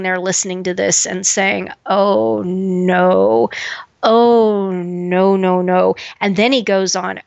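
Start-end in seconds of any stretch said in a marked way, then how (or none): 1.8-6.0 loud, aghast groaning oh no; pained oh no. Retold or imitated. Host voicing his dismay at the guest, pained loud groan. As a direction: groan it like it hurts to hear. Imagined listener reaction.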